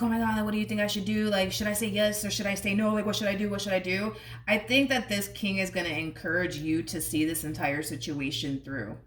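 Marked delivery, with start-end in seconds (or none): 0.0-4.1 panicked asking. Retold or imitated.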